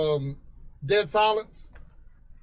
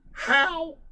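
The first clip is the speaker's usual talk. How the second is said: a squeaky, much higher how; chipmunk voice; 11 semitones higher than usual. Retold or imitated. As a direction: play the chipmunk-voiced kid. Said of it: "he went".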